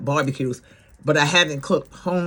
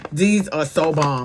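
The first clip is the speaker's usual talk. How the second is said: savoring. Real, not acted.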